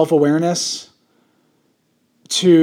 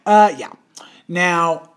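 whisper; slower than usual. Real, not acted. Aside whispered after a laugh.

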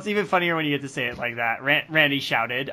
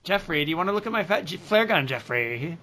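put-on fat kid voice; 2 semitones higher, 3 dB quieter than usual.

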